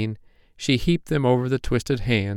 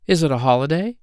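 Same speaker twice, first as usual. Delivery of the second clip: put-on high, quick childlike fairy voice; a small sleepy girl fairy asking; little fairy voice; 7 semitones higher, faster than usual. A narrator's reading. Poppy Pink's voice in story.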